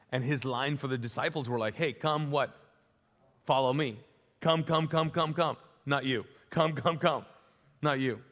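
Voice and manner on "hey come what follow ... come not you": loud, higher calls of come, come; calling out. Acted. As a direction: beckon people eagerly from afar. Jesus calling disciples to follow.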